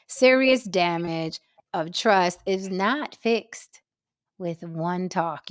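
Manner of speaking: slow, measured reading, dropping low at the end; solemn pronouncement. Acted. Reading a warning out to the gentlemen, solemn and slow. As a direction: lay it down gravely, word by word. Repeats the lesson to men.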